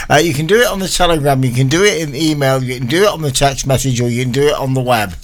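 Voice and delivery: rattled off fast. Shown as a demonstration. DJ rattling off ways listeners can send requests, fast. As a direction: reel off the options in one breath. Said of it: "I'm out of breath".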